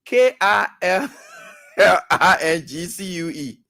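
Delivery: "K A L L I N G C U E" spelled letter by letter, slowly; slow letter-by-letter spelling. Shown as a demonstration. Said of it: "Killing skill".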